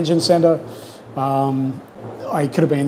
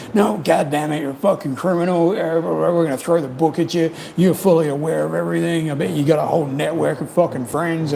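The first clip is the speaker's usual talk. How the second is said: lightly voiced redneck, pitched higher; imitated redneck officer; 4 semitones higher than usual. Redneck officer accusing the arrested traveler, lightly imitated. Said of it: "one fucking redneck who was just like".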